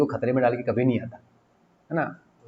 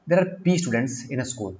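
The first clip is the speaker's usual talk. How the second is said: reading the question out slowly; slow, deliberate question read; much slower than usual. Shown as a demonstration. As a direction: dictate each word slowly. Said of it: "reads question slowly".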